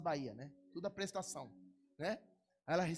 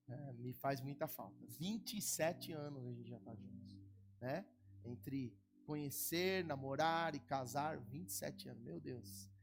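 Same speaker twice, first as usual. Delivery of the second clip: lower, softer, heartfelt plea; tender, sad request; 5 semitones lower, 4 dB quieter than usual. Real, not acted. Pastor asking the church to pray for his wife, soft and sad. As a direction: speak softly of missing your wife.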